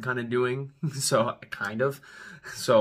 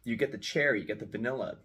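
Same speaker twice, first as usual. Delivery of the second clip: talking around a pipe stem; pipe in mouth; 5 dB quieter than usual. Real, not acted. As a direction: speak with pipe between teeth. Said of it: "as I kinda puff on this".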